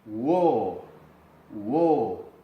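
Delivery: 'wo' with a long drawn vowel. Shown as a demonstration. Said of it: "se hace doble vocal".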